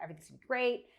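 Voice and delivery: hushed, breathy whisper; whispered reassurance. Retold or imitated. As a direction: whisper it like soothing a worried colleague. Retold reassuring self-talk.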